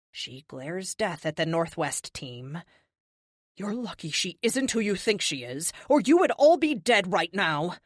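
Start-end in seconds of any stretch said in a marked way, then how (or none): 3.6-7.8 threat swelling to a loud furious end; venomous. Acted. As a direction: spit the threat at the team. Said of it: "the venom in Kate's voice".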